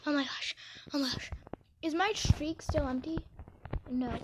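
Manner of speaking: soft breathy whisper. Real, not acted. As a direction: whisper it secretly. Whispering in game.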